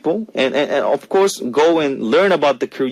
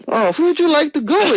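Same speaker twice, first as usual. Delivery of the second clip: high, laughing teasing question; 13 semitones higher than usual. Real, not acted. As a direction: tease him while laughing.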